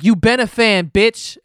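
loud mocking shout of an angry fan; mock fangirl yell. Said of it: "people were like".

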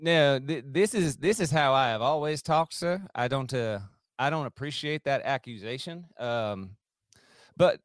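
lightly faked Southern accent; Brian Kelly. Denying the impression while answering trivia, fake Southern accent. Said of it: "trying to do a Brian Kelly impression".

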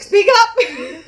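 mock call to speak up. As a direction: call out to someone you can't hear. Mock reply to low talker.

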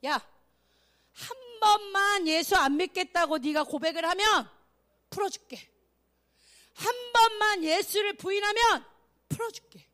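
governor pressing a captive to recant; persecuting governor. Acted. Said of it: "총독이 와서 크리스찬 이제 막 잡아서 핍박할 때야".

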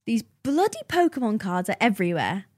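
put-on muddled, slightly northern English accent; like an American attempting an English accent; odd British accent. Guest guesses a texted message, wobbly British accent. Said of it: "What was that accent?".

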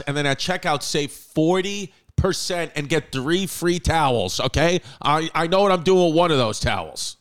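hyped podcast ad read with drawn-out brand name; host reading a sponsor spot to listeners, salesy. Acted. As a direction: sell it to the listeners, pushy and playful. Host reads sponsor ads.

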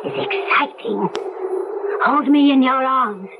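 seductive vampire. Acted. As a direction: savour every word.

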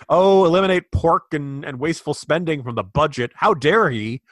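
high, loud mock indignation; hammed-up sarcastic horror; mock outrage. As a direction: act scandalized, sarcastically overdone. Sarcastically voicing outraged critics.

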